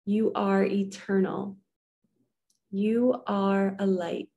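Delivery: usual speaking voice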